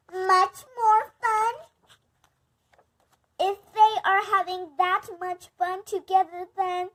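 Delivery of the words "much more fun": slow, higher, anxious question; worried whine. Acted. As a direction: plead it out in worry. Gerald panicking over friend.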